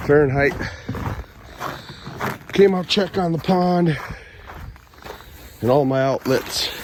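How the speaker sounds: out of breath in the cold; breathless, talking between breaths; short of breath. Real, not acted. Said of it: "Sorry if I'm a little short of breath".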